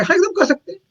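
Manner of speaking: mock-eager assurance from a retold helper; eager yes. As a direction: say it keen and sure, like an eager helper. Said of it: "बोले".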